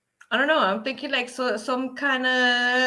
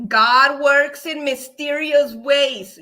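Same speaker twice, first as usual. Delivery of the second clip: mock preacher; 6 dB louder, slower than usual. Mock sermon line.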